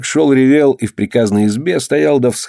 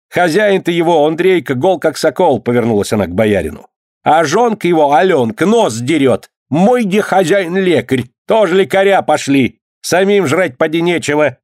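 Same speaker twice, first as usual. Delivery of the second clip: babushka scolding; 4 semitones higher than usual. Acted. Mavra scolds at the boyar.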